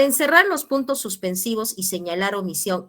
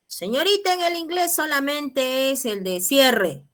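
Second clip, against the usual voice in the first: voiced student; 6 semitones higher than usual. Teacher voices student's objection.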